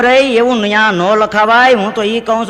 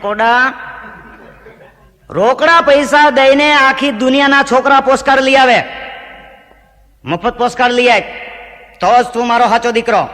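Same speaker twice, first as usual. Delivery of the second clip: mock scolding; 3 semitones higher than usual. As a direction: tell the son off in mock anger. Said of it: "હું ખીજાણો". (દીકરાને ખોટો ગુસ્સો કરતો પિતા)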